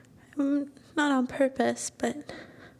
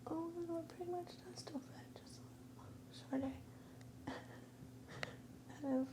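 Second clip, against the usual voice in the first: much softer, calling out from another room; from the other room; 5 semitones higher, 19 dB quieter than usual. Acted. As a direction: sound far off behind a door while changing. Changing clothes in another room.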